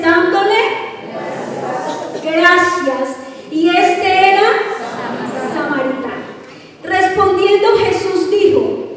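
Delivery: lectura solemne de la Escritura en voz alta; lectura bíblica. Acted. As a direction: proclama el pasaje ante la congregación, con pausas. Lee el pasaje bíblico en voz alta. (lectura bíblica proclamada con firmeza)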